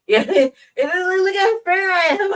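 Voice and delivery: high, loud, cracking up while talking; laughing outburst. Real, not acted. Speaker protesting her light skin to listeners, laughing hard. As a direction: burst out laughing through the words, drawn out.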